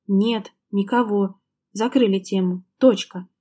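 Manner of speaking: slow, each word weighted firmly; stress every word. Acted. Husband firmly closing topic, stressing each word. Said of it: "твёрдо делая ударение на каждом слове".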